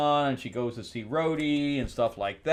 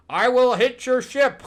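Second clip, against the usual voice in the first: higher, louder hammy threat; furry villain threat; 12 semitones higher, 7 dB louder than usual. Retold or imitated. Furry on the ship threatening the heroes, hammy and loud. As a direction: bellow it like a cartoon baddie. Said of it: "And he's like".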